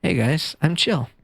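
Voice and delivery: lightly played laid-back voice; low-key imitation of a relaxed dude; underplay it like a chill streamer; chill guy. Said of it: "chill guy who was like".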